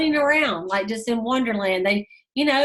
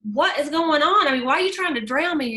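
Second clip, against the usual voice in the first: retold panicked question; 5 semitones higher than usual. Man gasping after near drowning.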